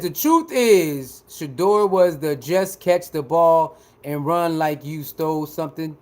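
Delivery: mocking pundit. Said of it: "he said".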